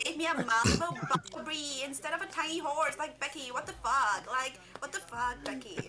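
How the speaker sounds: put-on valley girl. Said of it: "Valley Girl accent".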